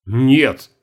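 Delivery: loud, sharp denial; indignant. Acted. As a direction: reject it flatly. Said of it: "возмущённо отверг".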